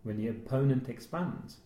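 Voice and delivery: slow, low, calm martial arts master; a hint of a solemn kung fu master; Bruce Lee voice. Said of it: "I'm not gonna do the Bruce Lee line".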